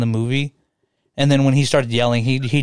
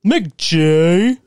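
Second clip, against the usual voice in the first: loud mock yell of McG; yelled name; 4 semitones higher, 4 dB louder than usual. Friend imitating Christian Bale yelling at the director. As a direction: belt out McG like Bale's freak-out. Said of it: "the freak out that I always yelled McG from".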